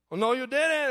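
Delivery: high, indignant retort; upset protest. Retold or imitated. Parent answering the official's bad call, high and indignant. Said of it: "I was upset".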